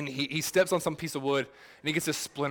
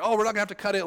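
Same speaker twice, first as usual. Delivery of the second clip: mock reassuring; 6 semitones higher, 4 dB louder, much faster than usual. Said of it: "I couldn't say anything to him".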